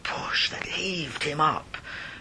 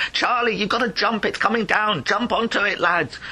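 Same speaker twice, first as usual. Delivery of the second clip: urgent shout; 3 semitones higher than usual. Acted. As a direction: urge him to jump now. Miners urging him to jump.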